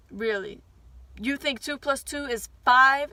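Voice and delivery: scornful teacher, breathing hard through the question; mock the kid's answer with a sneer; imitating a mean teacher. Mean teacher mocking a child's answer, scornful. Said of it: "she breathed so hard".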